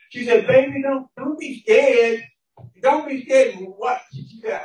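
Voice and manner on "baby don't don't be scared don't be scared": lightly acted mother, louder and higher; emphatic motherly comfort, stretched out; retold reassuring mother. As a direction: act out a mother firmly soothing her child. Mother reassuring a frightened child in story.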